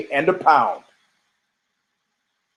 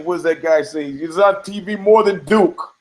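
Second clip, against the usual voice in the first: half-hearted coach impression, pitched up on TV more than Duke; lightly voiced basketball coach. Host mocking a coach who hogs TV time, lightly voiced coach. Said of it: "Basketball coach".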